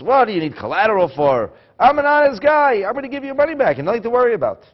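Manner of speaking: high, loud, offended borrower; indignant protest. Retold or imitated. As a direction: insist you're honest, loudly and fast. Borrower protests his honesty.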